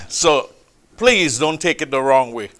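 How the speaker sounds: usual speaking voice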